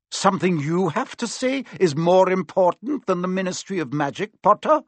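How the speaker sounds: incredulous, rising high on Potter; mock a pupil's self-importance; a voiced scornful professor; scornful teacher. A narrator's reading. McGonagall scornful.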